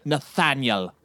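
very slow, cold reproach; slow menace. Acted. Collector lectures the wounded Nathaniel, slow menace. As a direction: drag out the lesson.

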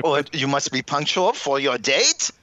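put-on lightly German-accented rule; mock German accent. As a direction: keep up the German instructor bit. Mock German dating class rules.

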